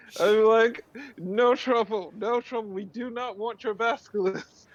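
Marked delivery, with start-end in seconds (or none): 1.2-4.4 high-pitched, urgent calling out. Playing a character running toward a kobold: yelling in character. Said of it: "yelling as I'm, like, running over".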